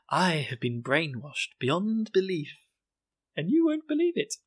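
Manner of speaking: slow, mock-brainwashed testimony; evangelical cult member. Cult girl with crazy look, slow evangelical impression. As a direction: intone it slowly, rising high at the end. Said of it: "she's very evangelical".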